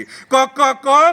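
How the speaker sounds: rhythmic imitation of a rooster's call; lightly voiced rooster refrain; crying rooster. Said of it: "कोंबो रडटा".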